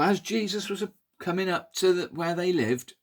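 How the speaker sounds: ordinary delivery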